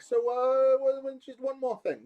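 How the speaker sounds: high, loud mock-detective afterthought; casually spring the last question. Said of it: "comes up and he's like".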